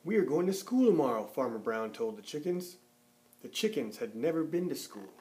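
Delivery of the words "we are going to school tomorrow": quick, raised, louder announcement; fast excited announcement. Acted. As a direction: rush it out with excitement. Farmer Brown to chickens.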